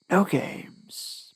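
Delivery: breathy, voiceless menace; warning whisper. A narrator's reading. Captor warning his hostage in a whisper. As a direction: whisper the threat close to her ear. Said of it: "my captor warned".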